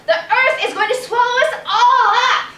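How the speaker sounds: high, loud proclamation with a laugh; proud chicken announcement. Acted. Chicken proclaiming to passers-by, loud and high. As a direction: crow it out again to the street.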